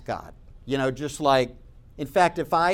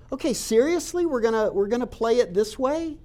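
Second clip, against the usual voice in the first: mock incredulous; 5 semitones higher than usual. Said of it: "just like".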